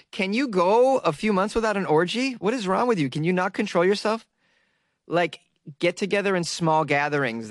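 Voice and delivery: high-pitched mock exasperation; exasperated scolding. Podcaster scolding pandemic orgy-goers, mock exasperated.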